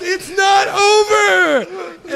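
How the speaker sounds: high, slow, loud panicked yell; frantic yell. Retold or imitated. Retold frantic yell at him.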